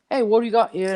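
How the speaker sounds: put-on quick, amused stab at an old South African man's accent. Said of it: "I don't know if that was the right South African accent".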